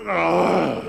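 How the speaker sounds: wordless growl of a cross lion; mad lion's growl. Acted. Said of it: "He was really mad".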